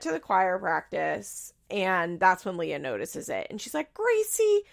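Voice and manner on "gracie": high, loud mock scolding; exasperated scolding. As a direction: imitate a fed-up mom telling off her kid. Mom scolding child, acted out.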